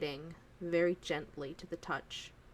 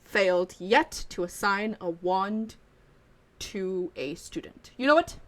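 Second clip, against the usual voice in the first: put-on louder, eager old wandmaker soothing the student; old shopkeeper promising it will work out; reassuring wandmaker; 7 dB louder than usual. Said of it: "He goes".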